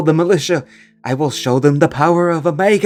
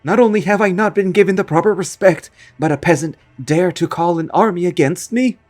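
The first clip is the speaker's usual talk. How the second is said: threatening ghost; 4 semitones higher than usual. Acted. Ghost villain threatens to burn the castle to the homeowner.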